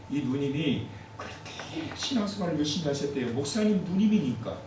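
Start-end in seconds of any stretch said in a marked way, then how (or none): none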